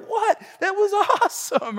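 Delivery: high-pitched, incredulous delight; mock enthusiasm. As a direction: play the clueless thrilled dad. Dad's overdone reply to daughter.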